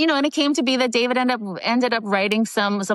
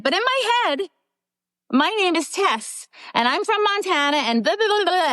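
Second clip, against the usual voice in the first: high, eager rush of words; eager blurt; 10 semitones higher than usual. Retold or imitated. Young extra pitching herself to the director, eager blurt. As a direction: spit it all out in one eager go. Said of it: "I just spit it out like a whole thing".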